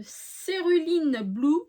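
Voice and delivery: English colour name in a French accent, drawn out slowly. Real, not acted. Crafter reads out an English marker name, slow French-accented English. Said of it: "moi et mon accent anglais".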